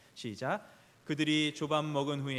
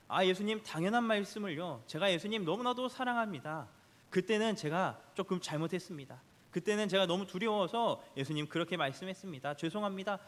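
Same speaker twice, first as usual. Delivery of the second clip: higher, self-assured confession as Peter; bold and confident; 4 semitones higher than usual. Retold or imitated. Peter boldly answering Jesus, higher and self-assured. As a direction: answer boldly, sure of yourself. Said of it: "이렇게 당당하게 나아가".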